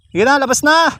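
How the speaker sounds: high, loud call to a goat. Real, not acted. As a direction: urge the goat out, raising the voice. Urging goat out. (malakas na pagtawag)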